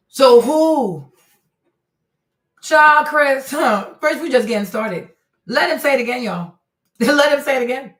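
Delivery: loud, high, hyped-up call to the audience; egging the chat on to replay it; excited. Real, not acted. Commentator hyped watching replayed clip.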